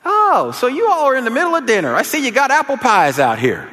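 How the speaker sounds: high-pitched talkative neighbor voice; Miss Evie. Retold or imitated. Neighbor eyeing the apple pies at dinner, put-on high voice. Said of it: "we heard Miss Evie say".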